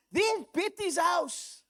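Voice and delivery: delighted auntie spotting her friend's house; Auntie Merle. Retold or imitated. Pastor to congregation, comic auntie voice excitedly pointing from plane. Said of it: "he's got this character called Auntie Merle".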